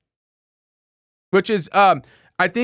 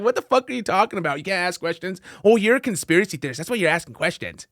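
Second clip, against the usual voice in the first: mocking critics; faster than usual. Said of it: "They talk like that".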